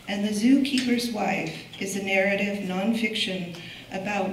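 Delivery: projected reading of a prepared biography; formal introduction. Real, not acted. Curator introducing a poet to the audience, formal introduction. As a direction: present the honoured guest from a script. Reads speaker's biography from script.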